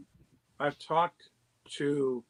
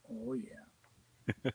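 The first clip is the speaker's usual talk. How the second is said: hushed, breath-only imitation of a shaken man; retold shaky voice; 9 dB quieter than usual. Batman volunteer phoning after his hospital visit, imitated shaky whisper. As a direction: let the voice drop out, as if shaken. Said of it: "I hear a very shaky voice".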